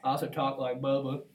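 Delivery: Bubba voice. Pretend. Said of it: "I do Bubba".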